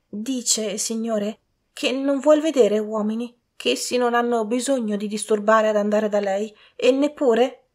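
high-pitched servant voice. A narrator's reading. Servant returning to the gentleman, high servant voice.

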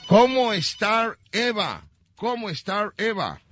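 lightly faked English question; mock English. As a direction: pretend it is English. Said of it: "La pregunta en inglés".

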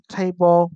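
"table" stressed on TA; first-syllable stress. Shown as a demonstration. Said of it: "dấu nhấn vần một". (nhấn vần một của "table")

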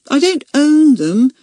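high, clear, firm denial; clear and decisive. A narrator's reading. Accused girl denying she owns slugs, clear and decisive. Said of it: "her voice clear and decisive".

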